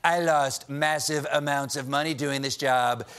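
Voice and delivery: lightly mimicked president, slowing at the end; mock presidential self-pity; Donald Trump. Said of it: "a whole new way to describe his presidency".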